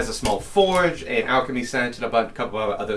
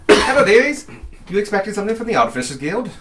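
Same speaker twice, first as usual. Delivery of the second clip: put-on high, loud old gnome lady; old woman voice; 10 semitones higher, 6 dB louder, faster than usual. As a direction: greet them like a kooky old gnome.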